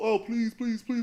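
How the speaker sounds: play-acted, high-pitched, repeated pleading and begging. Retelling how people beg God: imitating pleading people. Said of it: "And people just go".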